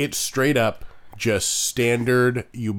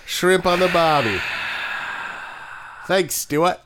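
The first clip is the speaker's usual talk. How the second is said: a clumsy mock Australian accent, raised pitch; bad Australian accent; 6 semitones higher than usual. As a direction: ham up a terrible Australian accent. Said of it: "me doing Cockney ... Or is that Australian".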